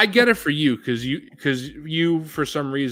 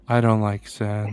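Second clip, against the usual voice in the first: whiny movie quote; 5 semitones lower, slower than usual. Retold or imitated. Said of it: "Fig's favorite part is".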